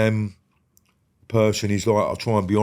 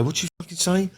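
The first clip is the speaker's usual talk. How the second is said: much higher, sharper repeat of the challenge; mock challenge; 10 semitones higher than usual. To someone who shouted at him, a high escalating challenge. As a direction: push the question up hard, squaring up. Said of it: "I'd go".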